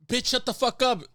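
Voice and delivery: high, loud mock outburst; retold scream. Friend retelling fighter's outburst at lady, mock yell. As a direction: shout down the heckler in imitation. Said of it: "So this guy screams".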